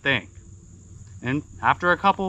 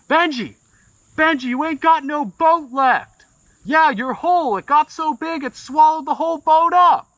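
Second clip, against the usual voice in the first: high, louder excited shout; excited yelling; 10 semitones higher, 3 dB louder than usual. Retold or imitated. John yelling to Benji that his boat is gone, excited and high. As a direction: blurt the news across the lake. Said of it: "John's getting real excited now".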